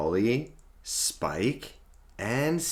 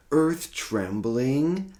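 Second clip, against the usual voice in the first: much higher and louder, drawn out; huge booming snore; 10 semitones higher, 8 dB louder, much slower than usual. A narrator's reading. Dad reading to kids, hams up the snore. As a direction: make the snore enormous.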